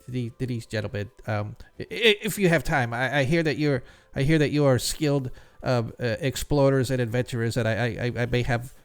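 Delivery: a hint of a stammering, anxious jeweler; nervous jeweler. Jeweler asks the adventurers for help, lightly voiced stammering. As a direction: stumble over the words, eager but timid.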